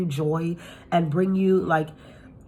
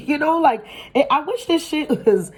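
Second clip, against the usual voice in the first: high, louder, laughing through the words; 9 semitones higher, 4 dB louder than usual. Real, not acted. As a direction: giggle while trying to go on. Laughing after the exclamation.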